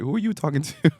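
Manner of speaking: a hint of an annoyed coach; Cat impression. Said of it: "sorry, that's my Cat impression".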